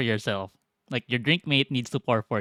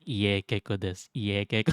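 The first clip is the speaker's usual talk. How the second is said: muttered much softer and lower, imitating a friend rehearsing; under the breath, practicing the phrase; muttering; 7 semitones lower, 7 dB quieter than usual.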